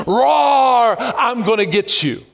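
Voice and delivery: hammed-up enemy threat; menacing enemy voice. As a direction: growl like a bully out to scare. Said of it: "This voice comes".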